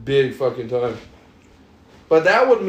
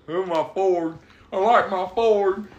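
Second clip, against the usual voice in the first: drawn-out mock of a truck fan; mocking quote. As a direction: mockingly parrot a friend's bragging. Mocking friend's love of Ford.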